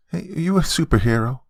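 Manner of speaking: put-on high child voice full of wonder; little girl. Daughter noticing uncle's glowing eye, little-girl wonder. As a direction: marvel as a small girl.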